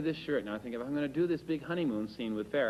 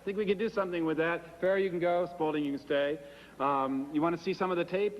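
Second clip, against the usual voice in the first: Hollywood director; 4 semitones higher than usual. Retold or imitated. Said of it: "Simon says".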